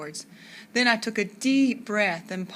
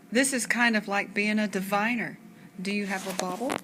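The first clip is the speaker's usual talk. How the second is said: put-on Hungarian accent. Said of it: "I asked in Miss Sadie's Hungarian accent".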